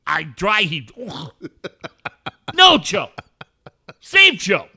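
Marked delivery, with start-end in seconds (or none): 2.5-4.7 high, loud mock cry to save him; mock plea. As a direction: wail it like a hammed-up rescue call.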